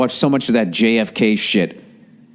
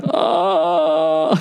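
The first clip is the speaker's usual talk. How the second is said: imitating a blank oh. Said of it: "He just was like".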